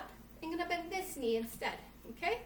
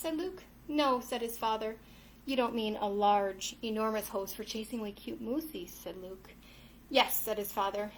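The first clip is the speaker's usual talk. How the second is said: lively picture-book storytelling; reading to children; 3 dB louder than usual. A narrator's reading. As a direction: read the tale aloud to little ones. Reads picture book to kids.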